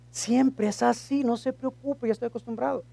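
soft, half-hearted long-suffering tone; quietly put-upon; mock resignation. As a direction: play the blamed one, softly resigned. Acts the blamed pastor, resigned.

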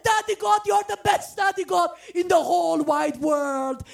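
joyful praise. Retold or imitated. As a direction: shout your thanks like a delighted child. Answering God in joyful praise.

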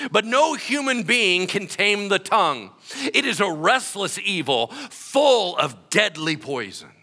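loud, high, preaching at full force; fiery scripture reading. Shown as a demonstration. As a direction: thunder the verses out like a prophet. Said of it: "Well, James, tell us how you really feel".

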